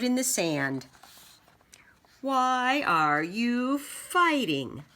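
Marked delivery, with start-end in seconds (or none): 2.2-4.8 slow unvoiced whisper. Boy's silent written question, slow whisper. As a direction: breathe the question slowly. Boy writes question in sand.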